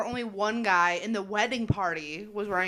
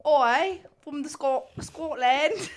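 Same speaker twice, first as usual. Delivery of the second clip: mock Scottish accent; 4 semitones higher, much slower than usual. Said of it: "That's a great Scottish accent".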